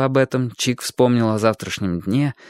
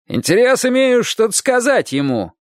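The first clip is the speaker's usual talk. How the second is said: shouted; 11 semitones higher than usual. A narrator's reading. Roof man insists to the wife, high shout. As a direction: holler from the rooftop. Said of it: "крикнул мужчина".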